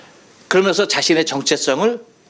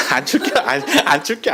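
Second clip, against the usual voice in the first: chuckling through 안 출겨; amused try at the dialect; laughing Chungcheong dialect; 4 semitones higher than usual. Shown as a demonstration. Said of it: "하면 뭐야".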